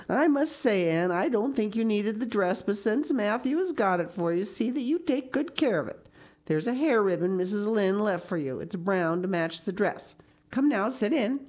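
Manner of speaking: lightly voiced stern guardian; a hint of grudging, practical disapproval; no-nonsense Marilla. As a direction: lay down the rules with brisk emphasis.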